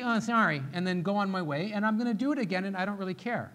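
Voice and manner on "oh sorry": mock throwaway sorry; careless apology. Spouse going on his way, insincere quick apology. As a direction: toss it off and move on. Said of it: "Do I just say".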